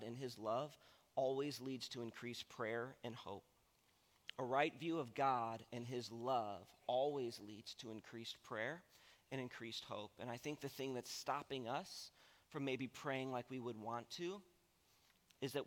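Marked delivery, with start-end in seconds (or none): 4.4-10.1 slower, each word laid down; slow, deliberate restatement. Shown as a demonstration. Pastor repeats the big idea to the congregation, slow and weighty. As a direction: spell the big idea out slowly.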